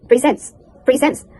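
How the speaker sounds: "presents" with S instead of Z, pre-SENS; British pronunciation. Shown as a demonstration. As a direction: say "presents" with a voiceless middle S. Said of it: "And in British accent".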